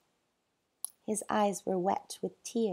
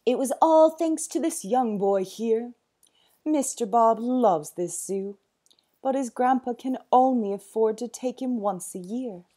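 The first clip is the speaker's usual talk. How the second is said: louder, higher friendly voice; friendly zookeeper; 3 semitones higher, 8 dB louder than usual. A narrator's reading. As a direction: explain it eagerly for the boy. Winston explains to owner.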